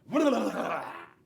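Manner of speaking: a playful scary growl to frighten the alligator; loud mock spooky noise. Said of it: "scare my alligator by going".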